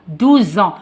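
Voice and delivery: "Douze ans" with the z linked onto "ans"; liaison in Z. Shown as a demonstration. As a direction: say "Douze ans" as "dou-zan". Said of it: "On fait la liaison". (liaison en Z appuyée : « Douze ans »)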